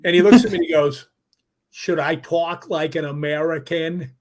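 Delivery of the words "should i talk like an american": slow, lightly put-on American voice; a Scot hamming up an American accent, slowly; mock American accent. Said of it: "making real funny with his mouth".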